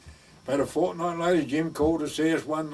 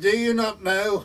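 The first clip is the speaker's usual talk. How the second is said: high, slow imitation Welsh accent; 7 semitones higher, 6 dB louder than usual. Welsh parson quizzing the gardener over the wall, Welsh accent. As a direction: mimic the parson's Welsh delivery, drawn out. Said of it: "in his Welsh voice".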